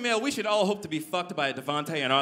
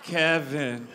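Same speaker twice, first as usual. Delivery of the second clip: deadpan name; 4 semitones lower, much slower than usual. Acted. Deadpan repeat of an uncool name.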